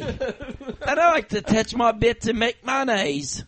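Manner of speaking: put-on Essex lad voice; silly celebrity impression of a pop singer. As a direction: ham it up as an Essex pop hopeful. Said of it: "The next one is a pop singer".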